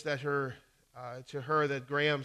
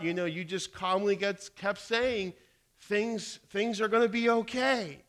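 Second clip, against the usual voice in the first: impressed woman; 5 semitones higher, 5 dB louder than usual. Retold or imitated. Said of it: "Very impressed, the woman".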